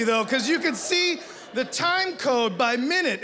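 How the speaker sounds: usual speaking voice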